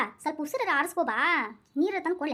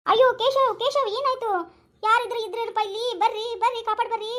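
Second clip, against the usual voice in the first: raised, distressed calling; panicked cry for help; 3 semitones higher than usual. Acted. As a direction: plead for anyone to come and save him. Acted cry for help for Keshav.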